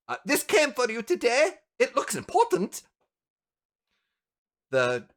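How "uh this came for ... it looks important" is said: high-pitched, deferential junior assistant; young assistant. Acted. Assistant handing the elf a parcel, young assistant voice. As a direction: report to the boss in a higher voice. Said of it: "a young assistant comes in".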